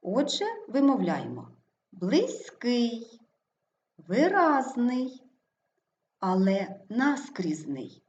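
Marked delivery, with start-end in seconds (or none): 1.9-3.2 близький stressed on the last syllable, близь-КИЙ; stress on second syllable. Shown as a demonstration. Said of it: "наголошений другий склад". 4.1-5.2 виразний slowly, stressed ви-РАЗ-ний; stress on second syllable. Shown as a demonstration. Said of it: "наголошений другий склад". 6.9-8.0 наскрізний slowly, stressed НАС-крізний; stress off second syllable. Shown as a demonstration. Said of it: "наголос не падає на другий склад".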